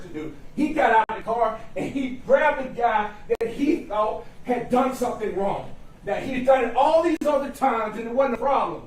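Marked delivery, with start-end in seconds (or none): 6.1-8.8 raised, forceful courtroom voice; loud. Real, not acted. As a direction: build to a near shout. Closing argument rising to shout.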